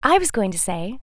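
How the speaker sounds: butterfly about to compliment the moth; lightly voiced butterfly. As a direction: start to give a kind word. Butterfly voice, same words later whispered.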